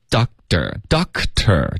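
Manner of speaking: Doctor said slowly, syllable by syllable; slow teacher demo of "Doctor"; crisp stop in Doctor. Shown as a demonstration. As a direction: sound out "Doctor" in careful pieces. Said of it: "然后会有一个干脆的停顿".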